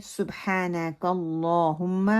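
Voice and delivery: سبحانک اللہم slowly, tight u, heavy long l; slow careful model of سبحانک اللہم; corrected recitation. Shown as a demonstration. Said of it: "جب ہم پڑھیں".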